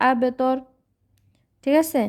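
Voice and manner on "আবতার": আবতার with a bouncing echo on the b; আবতার with qalqalah. Shown as a demonstration. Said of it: "এখানে কলকলা হবে".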